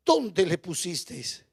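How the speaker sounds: low, slow and soft; subdued, moved question. Acted. Preacher voices Jesus asking the mourners after Lázaro, subdued and moved. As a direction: ask it gently, dropping from preaching voice.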